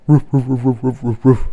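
imitated woofs in a quick run; dog barking. A narrator's reading. Storyteller imitating dogs racing across the field, playful barking. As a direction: bark like excited dogs, first one punched. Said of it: "They barked".

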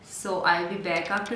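face under wet sheet; slightly stiff lips; wearing a sheet face mask. Real, not acted. Seen 1: hand raised beside face, not over mouth; sheet mask on face.

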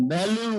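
ভ্যালু with a voiced v, vocal cords buzzing; teacher demonstrating ভ্যালু with buzzing v; v sound demo. Shown as a demonstration. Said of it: "আর এটা হচ্ছে". (কণ্ঠ কাঁপিয়ে ভ্যালু উচ্চারণ)

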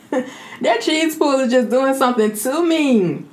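laugh, then gush slowly; laughing delight. Real, not acted. Laughing over the cheese pull.

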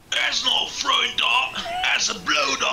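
a hint of Cockney accent, lightly done; understated Cockney accent put on; attempted Cockney accent. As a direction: try a London Cockney accent. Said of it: "I was trying to do Cockney".

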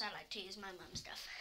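secret whisper. Real, not acted. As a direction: whisper it like a confession. Confessing secret habit.

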